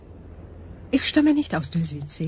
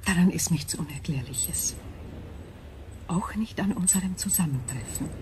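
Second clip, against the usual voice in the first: whispering crystal voice; 3 dB quieter than usual. Acted.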